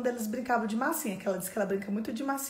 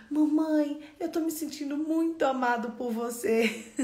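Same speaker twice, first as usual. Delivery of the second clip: imitated loved child; 4 semitones higher than usual. Small son voiced, delighted at bedtime.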